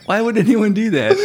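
laughing. Real, not acted. Both crack up at the joke.

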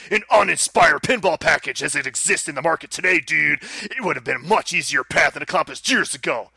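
gruff pro wrestler cutting a promo. Acted. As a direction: read it like a wrestling promo, brother. Wrestler promo read of announcement.

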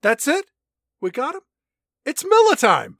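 high, loud goofy cheer; mock celebration. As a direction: ham up the easy victory. Mock hero celebrates victory.

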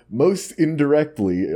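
flat robotic reading voice. Shown as a demonstration. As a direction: read it like a robot. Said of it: "forget the robot voice".

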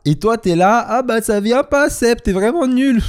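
high, slow mocking whine; mocking complaint. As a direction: mimic a disappointed girlfriend. Imitating herself scolding partner.

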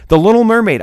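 amazed outcry; disbelief. Real, not acted. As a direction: blurt the title out, stunned. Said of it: "I cannot believe my eyes".

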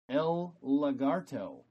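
El lagarto said slowly in Spanish; Spanish pronunciation. Shown as a demonstration. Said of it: "Which is Spanish for?".

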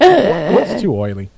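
drawn-out "It's too oily"; slow emphatic. Acted. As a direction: slowly stress "too oily". Repeating for emphasis.

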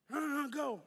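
high-pitched honk and holler; impatient honking drivers. Retold or imitated. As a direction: imitate a horn, then urge them on. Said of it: "people started beeping me".

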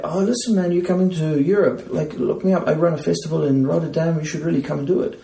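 put-on high, loud German accent; playful German accent invite. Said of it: "he said, like".

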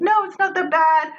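high-pitched, imitated attempt to reassure; backtracking reassurance. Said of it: "you know, trying to backtrack".

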